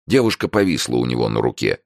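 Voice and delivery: ordinary delivery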